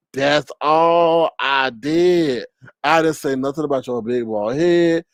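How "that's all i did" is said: That's all I did stretched very slow; slow dragged. Pretend. Streamer mock pleading to a rival, slow dragged whine.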